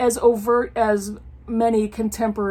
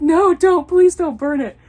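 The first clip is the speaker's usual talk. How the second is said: louder, higher mock begging; pleading husband; 7 semitones higher, 8 dB louder than usual. Imitating her husband begging her not to burn it. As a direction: plead like a husband saving his book. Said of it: "he's like".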